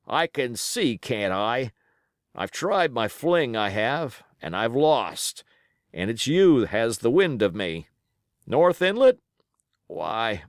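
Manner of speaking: put-on wounded old pirate, rough and grumbling; pirate sailor. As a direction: play the injured seaman, griping. Pirate Hands concedes.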